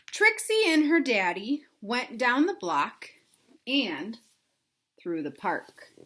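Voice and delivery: put-on lively read-aloud for kids; storybook narration. A narrator's reading. Teacher reading a picture book to children, lively narration. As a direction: tell the story to little listeners.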